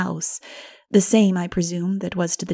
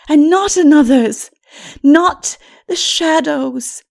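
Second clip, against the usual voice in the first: gentle wise woman rising; 9 semitones higher, 9 dB louder, slower than usual. Acted. Mara to Lilith, rising higher in earnest hope. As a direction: let the hope lift as you go.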